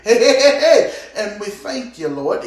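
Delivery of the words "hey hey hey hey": loud laughing hey hey; laughing shout. Real, not acted. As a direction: burst out joyfully. Laughing outburst in the spirit.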